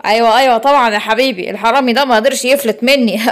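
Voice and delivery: a cop bragging about his catch; proud policeman. Acted. Policeman boasts.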